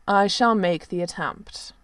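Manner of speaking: slow, commanding royal voice. A narrator's reading. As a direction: declare it like a prince. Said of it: "he announced in his most commanding tone".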